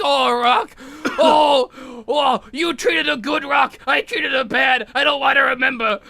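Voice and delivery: a hint of Paulie's emotional wail; Paulie crying out. Paulie talking about Adrian, hammed-up slow lament. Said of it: "He's like".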